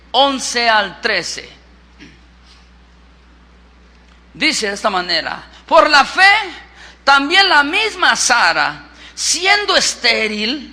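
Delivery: emphatic scripture reading from the pulpit; predicación enérgica. Real, not acted. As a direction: preach it out forcefully, stretching key phrases. Predica leyendo la Biblia. (lectura bíblica proclamada con fuerza)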